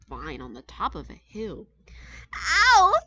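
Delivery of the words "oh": high, loud delighted chirp; chirpy grateful bird. A narrator's reading. Gertrude thanking her uncle, high delighted chirp. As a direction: chirp your thanks with a giggle. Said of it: "chirped Gertrude McFuzz".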